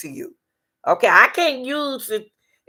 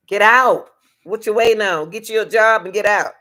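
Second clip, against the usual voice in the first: emphatic command; 7 dB louder than usual. Acted. Blunt advice to stay-or-leave listener.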